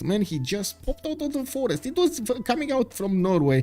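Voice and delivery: high, hammed-up tale of a raid; mock-alarmed play-by-play; mock-dramatic commentary. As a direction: play up the disaster, stretching words with pauses. Dramatising a scout's raid in game.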